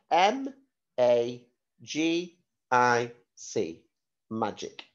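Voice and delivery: slow, letter-by-letter spelling. Shown as a demonstration. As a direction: spell each letter clearly for the class.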